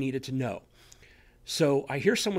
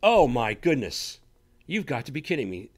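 amazed exclamation; 4 dB louder than usual. Retold or imitated. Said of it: "I went".

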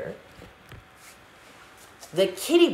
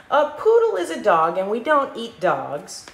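firm mama correction, higher and louder at first; correcting mama; 4 semitones higher, 4 dB louder than usual. Acted. Mama correcting her daughter, firm and a bit louder. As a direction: set the kids straight like a mom. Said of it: "corrected Mama".

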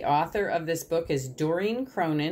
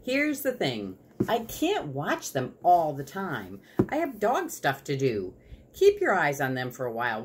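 animated read-aloud as the dog narrator; story narration. A narrator's reading. Dog narrator handing over watch duty, story narration. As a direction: confide in the listener, with lively intonation.

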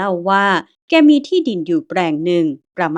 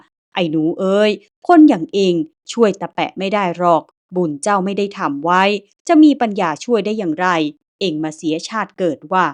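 a hint of a gruff big man, louder; stern scolding; 3 dB louder than usual. Big man warns the boy he cannot help, stern scolding. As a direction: scold the boy as a hard guardian. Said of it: "สำทับมาอีกว่า".

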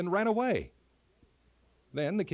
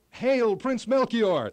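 slow, much higher and louder cheer; cheering crowd; 8 semitones higher, 9 dB louder, slower than usual. A narrator's reading. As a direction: hail him like a crowd cheering. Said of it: "the people cheered".

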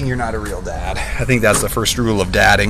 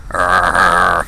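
zombie groan; 7 semitones lower than usual. Pretend. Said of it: "my zombie sounds are subpar".

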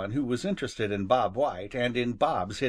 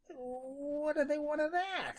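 much higher, slow, soft rabbit voice; puzzled question; 14 semitones higher, 6 dB quieter than usual. Acted. Rabbit finally asking Jimmy, high and puzzled. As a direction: ask it small and bewildered. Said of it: "he asked finally".

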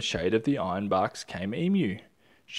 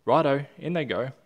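eager agreement; 4 semitones higher, 6 dB louder than usual. Acted.

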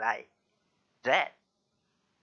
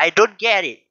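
higher, loud quote of a puzzled listener; uncomprehending native speaker; 4 semitones higher, 10 dB louder than usual. Acted. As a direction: act out a native speaker not understanding. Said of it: "But native speaker say".

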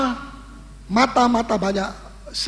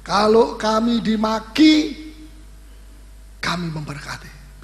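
pastor repeats the verse slowly to congregation, stretching each word; slow it right down so every word lands; slow, deliberate repeat; slower than usual. Shown as a demonstration. Pastor repeats the line slowly for the congregation. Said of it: "Ya, saya ulangi".

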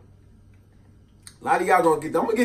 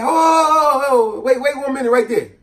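higher, louder stern aunt; aunt stopping him; 9 semitones higher, 5 dB louder than usual. Retold or imitated. Aunt stops the kid at the door, stern. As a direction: halt him with a stern hold-up. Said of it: "she said".

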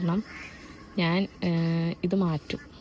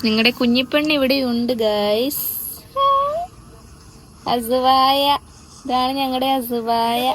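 higher, slow, doting coo; 6 semitones higher, slower than usual. Real, not acted. Mother presenting baby girl to viewers, higher slow coo. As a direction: show off the little one sweetly.

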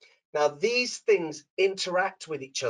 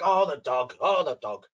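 mopey moaning. Retold or imitated. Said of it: "It's very negative".

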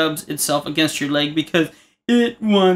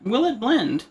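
raised "Will it blend?" with "will" stressed; catchphrase; 6 semitones higher, slower than usual. Retold or imitated. Lightly imitating the host, joking about blending the cat. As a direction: tease with the show catchphrase. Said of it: "You guys watch that channel?".

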